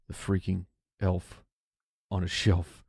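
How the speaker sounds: hushed, hurried whisper; frantic whisper. Real, not acted. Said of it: "I have to whisper because".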